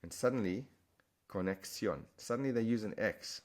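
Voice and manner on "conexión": conexión said with an s sound before the stressed final -ón; Spanish pronunciation. Shown as a demonstration. Teacher shows learners the Spanish word, Spanish pronunciation. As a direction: say conexión as ko-nek-SYON. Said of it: "If you said conexión with this spelling".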